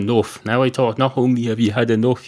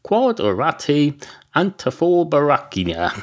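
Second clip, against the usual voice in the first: mock Latin dictum; 6 semitones higher than usual. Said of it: "believer in the dictum".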